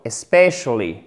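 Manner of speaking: "especially" with short i, then open è; "especially" starting on a brief i, strong second syllable. Shown as a demonstration. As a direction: stress the open "SPESH" in "especially". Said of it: "I court, mais après, c'est un «est»".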